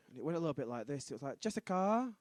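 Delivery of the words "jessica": put-on teenage girl voice. Shown as a demonstration. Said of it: "that's my teenage girl voice".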